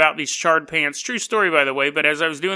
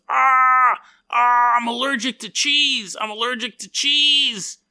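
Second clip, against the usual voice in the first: higher, crying panic over the cheese; mock distressed cry; 5 semitones higher, slower than usual. Allergic boy hit by cheese, higher mock whimpering cry. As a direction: whimper it like a scared kid. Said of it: "and he goes".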